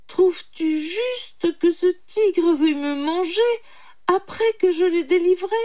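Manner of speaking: high, loud, aggrieved question; pleading appeal. A narrator's reading. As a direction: appeal urgently for a fair verdict. Sage appeals to jackal for justice. (appel aigu et indigné)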